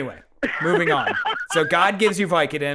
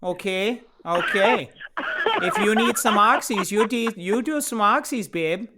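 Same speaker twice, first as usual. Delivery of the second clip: Wisconsin grandma; 4 semitones higher than usual. Pretend. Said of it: "I do my grandma's voice".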